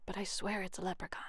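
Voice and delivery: breathy hushed whisper. Acted. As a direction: whisper so the leprechaun won't hear. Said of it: "Jamie whispered".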